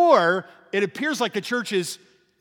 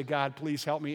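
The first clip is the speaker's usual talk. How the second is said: hushed plea; 5 semitones lower, 9 dB quieter than usual. Retold or imitated. Quoted prayer of someone in pain.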